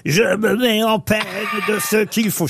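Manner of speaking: lightly voiced old man; a hint of a grumpy old miser; Harpagon old man voice. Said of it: "je vais vous faire le vieux pour Harpagon".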